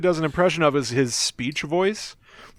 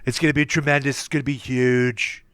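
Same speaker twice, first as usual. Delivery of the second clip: lightly voiced Trump, boastful; a hint of Trump bragging; Trump impression. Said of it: "they go with, like".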